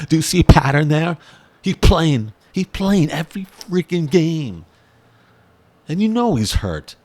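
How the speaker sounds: high, loud, emphatic; amazed and loud. Real, not acted. Fan listing a player's games, loud amazement. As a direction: marvel at him playing every game.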